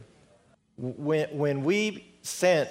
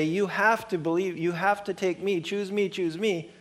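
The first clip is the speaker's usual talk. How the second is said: pushy demand; 5 semitones higher than usual. Acted. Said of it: "knock our door down to say".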